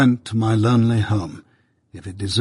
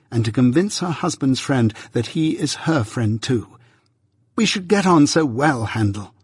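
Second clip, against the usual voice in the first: lightly voiced eager young man, a bit quicker at first; fond young friend; 3 semitones higher than usual. A friend passing on his sweetheart's invitation, fondly. Herbert speaks of Clara.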